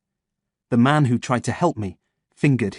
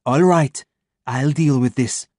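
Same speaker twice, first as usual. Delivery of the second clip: commanding; 2 semitones higher, 3 dB louder, slower than usual. Acted. Chantal taking charge.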